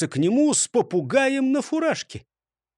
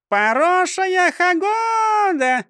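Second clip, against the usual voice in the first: parrot chirp; 12 semitones higher, 5 dB louder, much slower than usual. A narrator's reading. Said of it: "прощебетала она".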